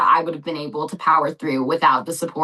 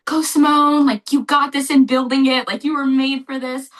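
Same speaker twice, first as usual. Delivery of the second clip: high, raised cheering-on voice; imitating cheering; 7 semitones higher, 4 dB louder than usual. Sister cheering her on through the challenge, imitated cheering. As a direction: mimic her urging you on. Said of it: "hear her cheering me on".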